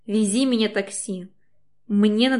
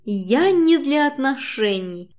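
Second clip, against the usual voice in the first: angry shout; 4 semitones higher, 5 dB louder, slower than usual. A narrator's reading. Angry quarrel.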